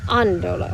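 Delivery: "andolo" stressed on the opening A; "andolo" with first syllable stressed, last two light; accented first syllable. Shown as a demonstration. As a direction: keep the emphasis on the A of "andolo". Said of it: "so I need an accent".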